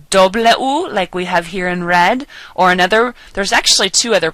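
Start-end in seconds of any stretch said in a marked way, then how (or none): 0.1-0.9 doble U said "DOH-bleh OO"; Spanish letter name. Shown as a demonstration. Teacher showing how to say W, careful Spanish pronunciation. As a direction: say doble U with Spanish vowels, raised. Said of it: "we can either say".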